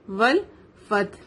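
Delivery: والفتح slowly as "wal-fat-h"; joined waw-lam. Shown as a demonstration. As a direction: join و straight to ل in والفتح. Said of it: "واو کو لام سے ملائیں گے". (والفتح میں واو لام سے ملا کر)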